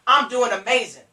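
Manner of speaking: loud, enthusiastic answer; upbeat sponsor. Shown as a demonstration. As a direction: sell how great your day is. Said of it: "you need to be doing amazing".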